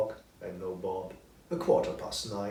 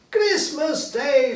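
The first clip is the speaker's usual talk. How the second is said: slow, high, delighted murmur to himself; old man suddenly overjoyed, slow and high; happily to himself; 11 dB louder, much slower than usual. Acted. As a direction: savour the words with joy. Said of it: "Scrooge said happily to himself".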